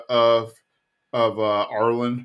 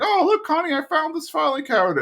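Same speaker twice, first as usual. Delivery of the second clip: mock dad voice, pitched way up; Connie's dad voice; faster than usual. Dad showing Connie his dumpster find, high mock voice. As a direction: squeak it out high like a proud goofy dad. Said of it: "it's like".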